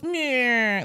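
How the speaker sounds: mock sour "meh"; drawn-out grumpy bleat; sourpuss whine. Wife imitating a sourpuss at the festivities, mock whine. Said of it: "be there sourpuss".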